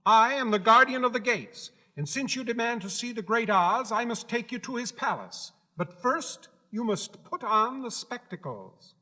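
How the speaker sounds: high, proud little gatekeeper; Guardian of the Gates. Acted. Gatekeeper laying down the rules to Dorothy, high and proud. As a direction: announce your post with self-importance.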